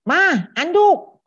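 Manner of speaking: high, loud drawn-out call to mom; imitating a kid's shout; child yelling. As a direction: holler for a towel from the bathroom. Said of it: "dia cuma teriak".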